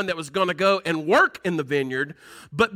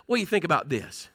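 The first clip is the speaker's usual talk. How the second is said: fast, conversational question; quick and offhand, as if chatting with a friend; quick casual rephrase; 4 semitones lower, 4 dB quieter, faster than usual. Shown as a demonstration. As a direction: toss it out quickly like a friend asking. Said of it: "Then I like to say it like this".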